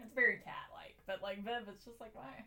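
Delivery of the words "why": exasperated scolding. Retold or imitated. Scolding the cat Viv.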